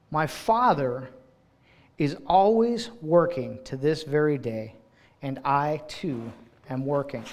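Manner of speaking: slow, each phrase weighed; slow emphatic reread. Shown as a demonstration. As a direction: linger on every phrase of the verse. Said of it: "I want to stop right there".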